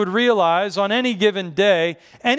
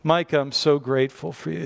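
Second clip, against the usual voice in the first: tender gratitude; 3 semitones lower than usual. Shown as a demonstration. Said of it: "I just need to say".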